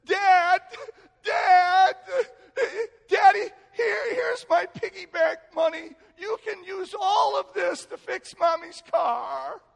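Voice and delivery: high, loud mock crying child; tearful little daughter. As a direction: imitate a child wailing out an earnest offer. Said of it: "and she's in tears".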